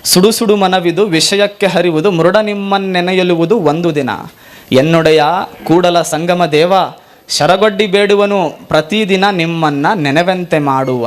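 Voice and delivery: slow, measured devotional recitation; recited vachana. Acted. Preacher reciting Basavanna's plea to the Lord, slow and measured. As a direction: intone each phrase like a prayer to Kudala Sangama. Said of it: "Basavanna ಅಂತಾನೆ".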